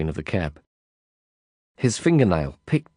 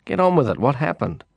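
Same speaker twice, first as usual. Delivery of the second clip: impatient; 4 semitones higher than usual. Acted. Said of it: "I grumbled".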